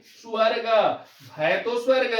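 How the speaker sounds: स्वर्ग with a faint u glide after s, swarg; pronunciation demo. Shown as a demonstration. Teacher models स्वर्ग for dear children, careful demo. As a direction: let a trace of u sound in स्वर्ग. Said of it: "ऊ की sound आ रही है".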